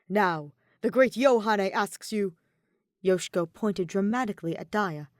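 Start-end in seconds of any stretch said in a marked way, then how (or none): 0.1-2.4 loud, theatrical self-proclaimed dark angel; grandiose fallen angel. Acted. Yoshiko as Yohane commanding Daya, loud and theatrical. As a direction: proclaim it like a dark ruler summoning a servant.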